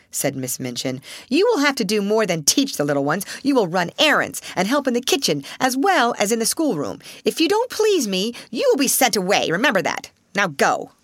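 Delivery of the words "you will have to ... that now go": harsh headmistress. Acted. Headmistress orders her off.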